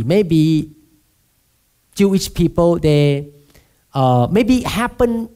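mock skeptic. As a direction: make fun of a skeptic waving it all off. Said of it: "people may say like this".

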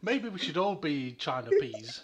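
slow, laughing mock Chinese accent. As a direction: drag it out in a jokey Chinese accent. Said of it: "I'll be Chinese".

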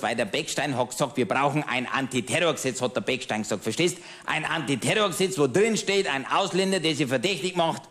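a lightly voiced pub-table know-it-all, chatty and smug; grumbling Bavarian regular. Pub regular ranting to his old friend, smug grumbling. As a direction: play the pub-table ranter holding forth to his friend. Cabaret character monologue.

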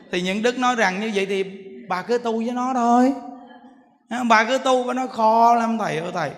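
ordinary talk, nothing marked

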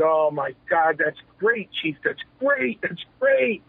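retold delight, rising with each phrase; excited reaction. Wrestler retells congratulating his chief on the booker job, excited.

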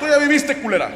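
mock yell with "ya" stressed; mock shout. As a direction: yell "Tú ya viviste" at an old lady. Shouting at the old lady.

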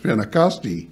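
Pentecosti with a final ee sound, pen-te-kos-tee; Greek pronunciation. Shown as a demonstration.

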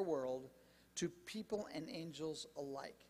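slow, deliberate Bible reading; unhurried public reading of scripture; measured scripture reading. Acted. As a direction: read the verse out slowly, phrase by phrase. Rereads the verse aloud to congregation.

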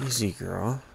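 soft-spoken coaxing of a horse; easygoing, soothing sweet talk. Real, not acted. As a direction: gently settle the animal down. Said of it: "Gotta just sweet talk her".

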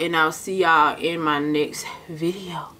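soft whispered sign-off; whispering. Real, not acted. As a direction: whisper the goodbye to viewers. Whispered goodbye at video end.

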